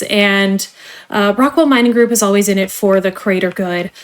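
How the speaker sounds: polished corporate trainer voice; cheerful company onboarding spiel; customer service voice. Acted. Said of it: "let me put away my customer service voice now".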